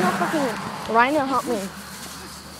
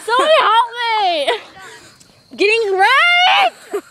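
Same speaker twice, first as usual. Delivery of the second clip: mock cry for help; 5 semitones higher than usual. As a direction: ham up a call for help. Mock cry for help while wrestled.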